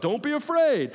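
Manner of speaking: high, loud mock ghostly cry. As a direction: call it out over wind and waves. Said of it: "the ghost cries out".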